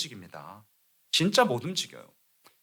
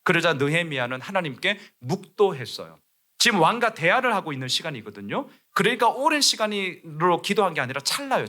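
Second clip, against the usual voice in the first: ordinary talk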